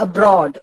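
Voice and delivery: "അബ്രോഡ്" stressed on ബ്രോഡ്; light അ, weighted ബ്രോഡ് in "അബ്രോഡ്"; stress on second syllable. Shown as a demonstration. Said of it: "ബ്രോഡിനാണ് ഉച്ചാരണം". ("അബ്രോഡ്" എന്നതിൽ ബ്രോഡ് ഊന്നിപ്പറയുക)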